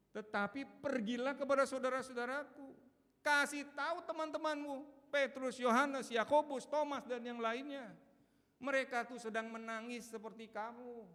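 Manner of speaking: loud, high preaching voice; full-force preaching. Acted. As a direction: proclaim it with fire to the crowd. Preaching Jesus' words at full force.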